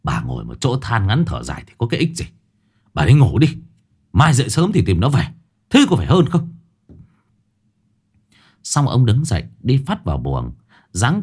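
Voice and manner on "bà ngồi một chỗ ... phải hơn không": snapping. Acted. Husband snaps at his fretting wife to go to bed, irritated. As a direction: cut her worrying short. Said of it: "ông Bộc phải gắt".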